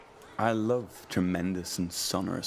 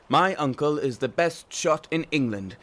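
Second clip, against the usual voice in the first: boasting; 6 semitones higher, 4 dB louder than usual. Acted. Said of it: "everyone boasted".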